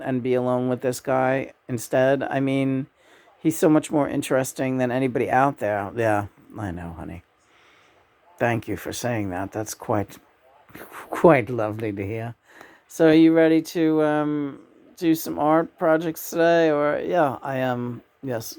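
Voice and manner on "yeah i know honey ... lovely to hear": voicing John. She answers herself as John.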